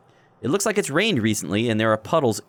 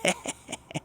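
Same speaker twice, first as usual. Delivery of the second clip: quiet unvoiced giggle; 8 dB quieter than usual. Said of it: "She seems to think she said something funny".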